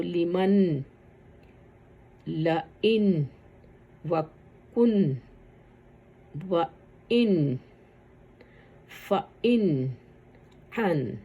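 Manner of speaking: each word drawn out slowly, ending on a clear n like لئن; slow recitation drill. Shown as a demonstration. Teacher slowly sounding out nun sakin examples. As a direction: stretch لئن and وکن slowly, then close on the n. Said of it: "دونوں کے ساتھ میں حرکہ لگی ہوئی ہے".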